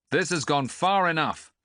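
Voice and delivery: put-on young man halting the quarrel, loud call. A narrator's reading. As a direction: cut the quarrel off from the back. Stranger cuts in from crowd.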